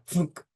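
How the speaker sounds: short, dull "thunk"; imitated mitt thud. Umpire demonstrating the catcher catching it, imitated thud. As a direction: mimic a ball landing in a mitt. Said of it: "a thud of the mitt".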